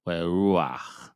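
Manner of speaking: "we ruach" breathed with no voice; whispered "we ruach". Shown as a demonstration. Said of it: "we're going to say".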